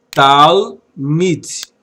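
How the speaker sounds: talmid, said clearly with a falling end; model word talmid. Shown as a demonstration. Hebrew teacher models talmid, clear and careful. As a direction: say talmid slowly and clearly for the class. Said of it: "A expressão".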